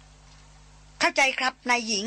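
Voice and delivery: slow put-on gruff answer; mock gruff reply. Chayan answers for the elephant in a mock gruff voice. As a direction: pretend to be the elephant answering, slowly. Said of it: "เสียงตอบห้าวๆดังมา".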